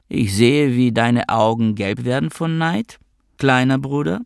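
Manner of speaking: statement rising at the end like a question; teasing older sister, statement rising like a question; statement sounding like a question. A narrator's reading. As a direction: let the end of it rise, half asking. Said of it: "Ein Aussagesatz, der wie eine Frage klang".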